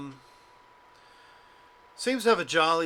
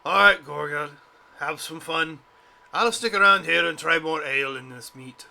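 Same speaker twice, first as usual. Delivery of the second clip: loud dwarf; 7 dB louder than usual. Acted. Dwarf character bellowing.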